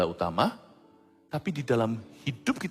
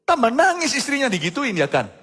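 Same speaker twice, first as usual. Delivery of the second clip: exclaiming; 12 semitones higher, 7 dB louder than usual. Real, not acted. Preacher exclaims to congregation.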